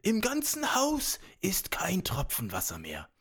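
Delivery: high whispered servant voice; a frightened servant whispering; hushed, anxious servant; timid servant whisper. Acted. Servant answers giant.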